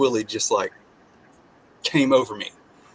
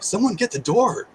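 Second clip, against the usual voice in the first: mild mock yell, higher; 9 semitones higher than usual. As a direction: call out to the house, lightly imitated. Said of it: "I yelled".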